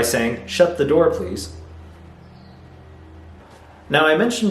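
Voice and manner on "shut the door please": higher instruction, easing off on "please"; polite command. Shown as a demonstration. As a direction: give a courteous order, not a question. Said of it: "giving a command in a polite way".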